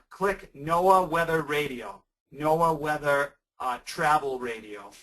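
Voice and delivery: carefully enunciated for note-taking; slow and deliberate. Shown as a demonstration. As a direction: spell out the name slowly. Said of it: "you can Google this".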